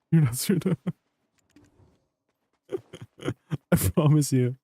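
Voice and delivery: cracking up mid reassurance; laughing. Real, not acted. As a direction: laugh through the promise. Laughing while reassuring viewer.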